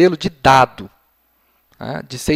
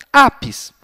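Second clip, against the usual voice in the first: put-on child's answer; 10 semitones higher, 5 dB louder than usual. Shown as a demonstration. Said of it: "E a criança".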